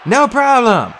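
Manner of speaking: high, loud shouted reply; called-back reply. A narrator's reading. Hero answering soaked friend mid-battle, high shout. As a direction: toss it back over the din.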